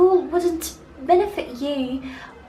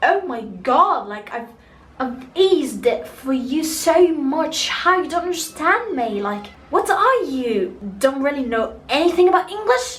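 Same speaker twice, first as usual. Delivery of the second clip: imitated exasperated reaction; 3 dB louder than usual. Man imagined reacting to her not understanding his English, exasperated. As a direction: act out someone fed up at not being understood. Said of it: "the man's reaction was like".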